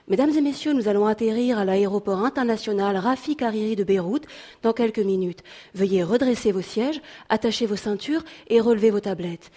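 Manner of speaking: friendly but firm cabin announcement; polite, steady in-flight PA voice; flight attendant. Acted. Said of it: "d'une voix amicale mais ferme".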